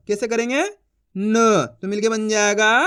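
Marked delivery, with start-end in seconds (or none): 0.6-1.7 न as a bare "n" sound; न said as "nnh"; half-pronounced letter. Shown as a demonstration. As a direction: sound out न alone, without a full "aa". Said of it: "उसका उच्चारण आधा करेंगे".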